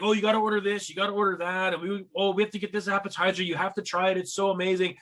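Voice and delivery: imitating excited friends at dinner; gushing friends. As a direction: push every dish with mock delight. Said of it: "they're like".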